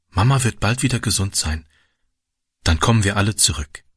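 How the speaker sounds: plain reading voice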